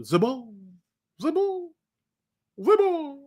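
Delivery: "Zabo" said ZEE-bo, rising high; French-ish Zabo. Real, not acted. Fan trying "Zabo" in a mock French way, ZEE-bo. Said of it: "Sound like it's a French name a little".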